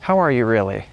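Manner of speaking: caring, sincere "How are you really"; really want the answer; a friend asks with real concern. Shown as a demonstration. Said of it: "you can say".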